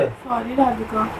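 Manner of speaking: grudging apology. Acted. Forced apology to flatmate.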